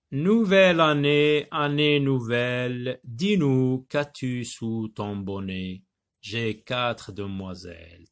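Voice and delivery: poem reading. Acted. Teacher reads a New Year poem to pupils, measured recital.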